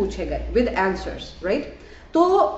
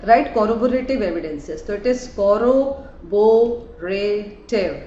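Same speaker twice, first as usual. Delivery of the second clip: "corroborative" drawn out syllable by syllable, very slow; teacher modelling "corroborative" at very slow pace; slow careful term; much slower than usual. Shown as a demonstration. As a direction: spell "corroborative" out slowly, syllable by syllable. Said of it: "go slow with it".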